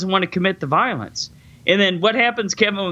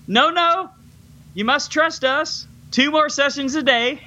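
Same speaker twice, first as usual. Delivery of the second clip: mock doctor refusing; 8 semitones higher than usual. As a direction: deny him gently but firmly, hammed up. Doctor refuses Alex, retold.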